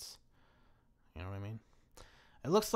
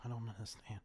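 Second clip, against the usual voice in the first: baffled whisper; 6 dB quieter than usual. Real, not acted. Baffled by the map.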